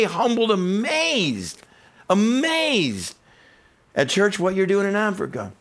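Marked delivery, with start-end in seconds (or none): 0.0-3.1 slow, high, awed words; humbled, amazed. Real, not acted. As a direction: let the wonder linger. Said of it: "I was just blown away".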